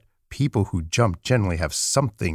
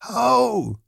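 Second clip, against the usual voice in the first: high wild-rabbit voice; furry rabbit; 12 semitones higher than usual. A narrator's reading. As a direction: pipe up high as a storybook rabbit. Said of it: "said the furry rabbit".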